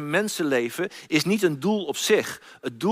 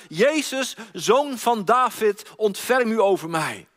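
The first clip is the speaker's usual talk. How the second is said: crying out; 3 semitones higher, slower than usual. Acted. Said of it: "riep hij uit".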